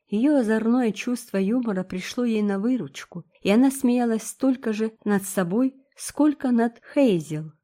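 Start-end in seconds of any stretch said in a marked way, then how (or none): none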